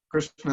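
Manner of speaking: "Krishna" with a careful Sanskrit r; proper pronunciation. Shown as a demonstration. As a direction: say "Krishna" precisely, r before a clear sh. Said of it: "is the proper way".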